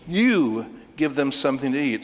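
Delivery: a command with "You" held long; emphatic imperative YOU. Shown as a demonstration. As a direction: stretch "You", then give the rest as an order. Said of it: "very emphatically, with the imperative, um, voice".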